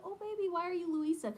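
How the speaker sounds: high-pitched cooing worry; concerned mom. Retold or imitated. Worried mom asks her daughter why she is Luisa, concerned. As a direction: ask a small child gently, pitched well up.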